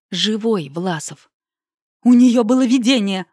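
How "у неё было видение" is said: громкий выкрик, выше; прокричи это в трубку; выкрикнуть. A narrator's reading. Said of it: "выкрикнула Белёна". (громкий выкрик)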